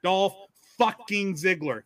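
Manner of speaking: "Dolph", a beat, then "fucking Ziggler" with odd stress; deliberately misplaced emphasis. Shown as a demonstration. Correcting Nate on how to say the name, deliberately misplaced emphasis. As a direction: break after "Dolph" and stress the wrong word in "fucking Ziggler". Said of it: "put the emphasis on the wrong word".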